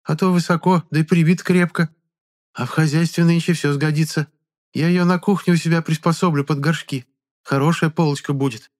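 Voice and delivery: high, chatty village woman; a gossiping villager fussing over him; high village granny reassuring a stranger; old peasant woman. Acted.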